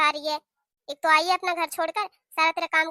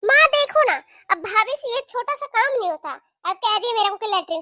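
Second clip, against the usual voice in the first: whiny complaint; 4 semitones higher, 3 dB louder than usual. Acted. Daughter complains to mother.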